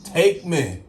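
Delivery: rising, pleading cry to the Lord; hammed-up prayer; mock desperate prayer. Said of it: "You gotta like".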